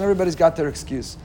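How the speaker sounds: normal talking voice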